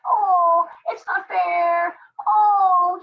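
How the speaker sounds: mock complaint, high and drawn out; mock whine.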